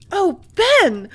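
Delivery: high, loud cry of delight; sheer delight. A narrator's reading. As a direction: burst out with joy at his news. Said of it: "exclaimed the girl in sheer delight".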